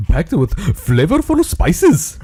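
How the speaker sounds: mock-accented ad voice, swooping on key words; hammed-up copy reading. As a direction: sell the spices with overblown flourish. Hammed-up reading of chip-bag copy.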